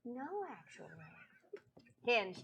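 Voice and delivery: normal talking voice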